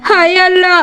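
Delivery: mild crying despair, pleading to God; distressed lament. Acted. Wife to husband over ruined crop, mild tearful lament. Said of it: "তুমি কান্না করো না গো".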